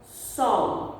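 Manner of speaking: sol whispered without voice; unvoiced demo of sol. Shown as a demonstration. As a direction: breathe the word sol. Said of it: "Eu abri minha boca quantas vezes".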